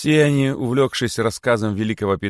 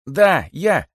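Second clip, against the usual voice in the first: high, loud, brazen admission; cheeky exclamation; 10 semitones higher, 7 dB louder than usual. A narrator's reading. Cheeky rabbit owns up from inside the boa, exclaiming brazenly. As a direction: call it out boldly, pitched high. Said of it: "воскликнул дерзкий кролик".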